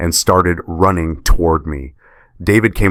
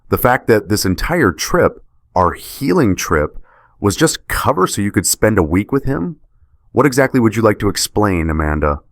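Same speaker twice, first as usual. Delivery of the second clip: high, cutting questions; confronting his wife's lies; cold anger; 4 semitones higher than usual. Acted. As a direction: pin her down with each question. Husband confronts cheating wife.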